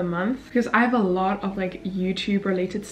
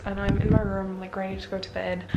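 talking with a retainer in; slightly thick speech from retainers; wearing a retainer; 4 dB quieter than usual. Real, not acted. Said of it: "put on my retainers".

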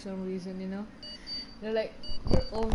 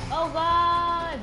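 startled; 6 semitones higher, 7 dB louder than usual. Real, not acted. Car crashes.

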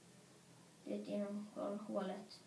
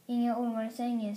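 shout; 2 semitones higher, 9 dB louder than usual. Acted. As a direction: shout it at the snake. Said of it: "skrek jag".

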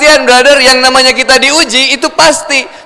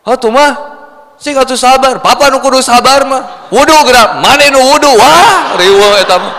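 snapping wife; 2 semitones higher than usual. Acted. Wife snapping back at husband.

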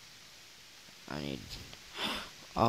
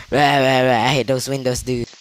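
louder, fast mock rage; mock angry rant; 5 dB louder, faster than usual. Retelling an angry player's chat, fast mock rant. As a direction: mimic a sulking player ranting. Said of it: "he chatted me and he said".

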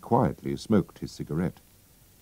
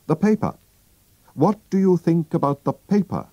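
higher, keen detective quizzing his friend; Holmes voice; 13 semitones higher, 4 dB louder than usual. Acted. Holmes questioning Watson about the paper, keen and higher. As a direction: test Watson like a sharp detective.

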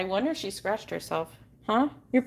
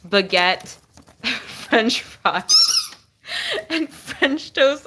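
laughing through names; 2 semitones higher, much slower than usual. Real, not acted.

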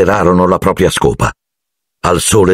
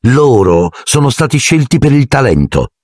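sharp; 6 semitones higher than usual. Acted. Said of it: "commentò Hermione aspra".

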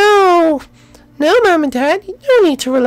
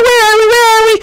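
ordinary delivery

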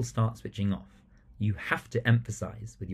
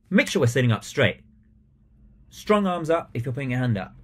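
louder, firm command, shocked tone; stern, shocked; 3 semitones higher, 4 dB louder than usual. Shown as a demonstration. Teacher demanding slouching pupils sit up, sternly. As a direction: insist that they sit up. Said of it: "if you're shocked by that behaviour".

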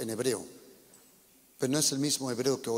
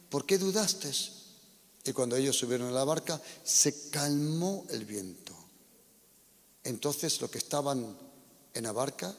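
a preacher reading the Gospel aloud, dramatic; scripture reading. Acted. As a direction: read the passage to the congregation with feeling. Preacher reads the Gospel passage. (lectura bíblica del predicador)

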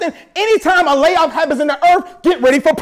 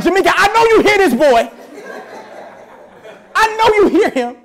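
amused exasperation; 5 semitones higher than usual. Retold or imitated. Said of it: "And I'm like".

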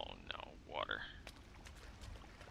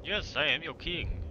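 roaring tyrant king; 6 semitones higher, 4 dB louder, slower than usual. Pretend. Declares himself king to followers.

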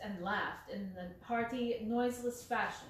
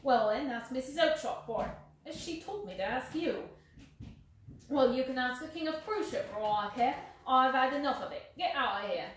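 angry shouting; 3 semitones higher, 5 dB louder than usual. Acted. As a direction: drive him away for good. Salesman keeps shouting at him.

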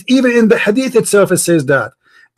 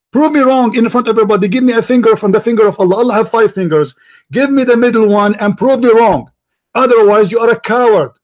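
raised, higher-pitched badgering; yelling; 3 semitones higher than usual. Real, not acted. Christian debater challenging caller to prove him wrong, yelling. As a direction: press the demand home, voice pitched up. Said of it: "why are you yelling".

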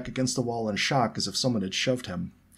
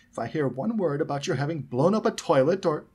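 higher, threatening motherly warning; dangerous tone; 7 semitones higher, 4 dB louder than usual. A narrator's reading. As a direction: warn the boys with menace. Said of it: "in a dangerous tone".

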